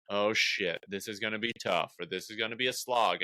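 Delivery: a touch of dread before a tough set; dreading host. Retold or imitated. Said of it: "hosts will go up there with".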